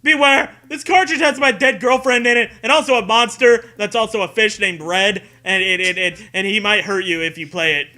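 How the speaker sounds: loud, high dramatic announcement that fades down; hammed-up listing warning; mock warning label. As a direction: proclaim it like a spooky warning notice.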